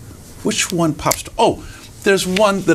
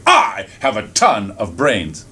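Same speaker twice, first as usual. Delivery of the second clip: boastful fox; 4 semitones lower, slower than usual. Acted. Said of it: "never again did he say".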